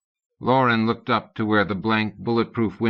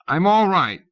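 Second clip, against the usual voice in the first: quavering; 9 semitones higher, 5 dB louder than usual. A narrator's reading. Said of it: "His voice was quavering".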